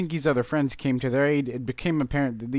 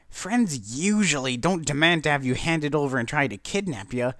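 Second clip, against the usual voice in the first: strained cheerful Pinkie; 5 semitones higher than usual. A narrator's reading. Pinkie forcing cheer to friends, high and strained. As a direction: keep smiling through the worry. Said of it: "Pinkie said, smiling".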